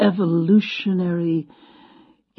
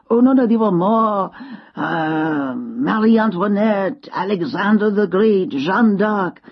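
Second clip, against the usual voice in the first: put-on French-accented list of famous names; lightly voiced old Frenchman, French accent; 2 semitones higher, slower than usual. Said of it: "He had a French accent".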